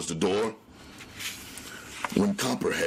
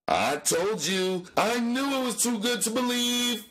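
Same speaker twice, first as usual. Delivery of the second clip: high frightened moaning voice; loud moan. Acted. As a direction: wail it like a scared man who saw it coming. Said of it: "Tubby moaned loudly".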